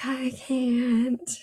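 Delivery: unvoiced-sounding stage whisper, drawn out; whispered reluctance. She is told to remove her shift, whispering reluctantly. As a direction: whisper it, playing helpless hesitation. Acted reluctant reply to undressing order.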